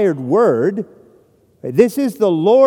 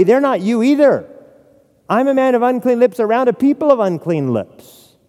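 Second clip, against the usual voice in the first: Isaiah's cry of woe; 4 semitones higher than usual. Acted. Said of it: "All he could do was say".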